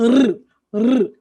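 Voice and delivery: two short rolled tongue-tip R bursts, loud; R, R as short trills, not letter names; weak R sound. Shown as a demonstration. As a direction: trill R briefly, twice, as "rr, rr". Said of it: "R forte, R fraco".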